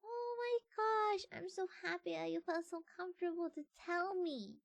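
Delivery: overjoyed, tender support for a friend; high, soft heartfelt gush; gushing supportive friend. Pretend. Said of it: "the kind of person who's like".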